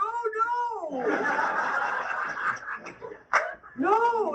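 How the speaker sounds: high, laughing protest; laughing dismay. Retold or imitated. Newcomer called up front, laughing reluctance. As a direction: giggle out a reluctant refusal.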